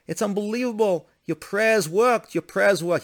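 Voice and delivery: high-pitched, loud acted astonishment; excited amazement. Father tells the Rebbe of a miracle, amazed excitement. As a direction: exclaim the good news, drawing out the words.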